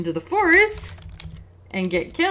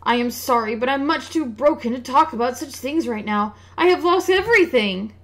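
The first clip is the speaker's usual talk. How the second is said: a robbed merchant, woeful and louder; lamenting merchant; 4 semitones higher, 7 dB louder than usual. Acted. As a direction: bewail his losses like a ruined trader. Merchant voice again.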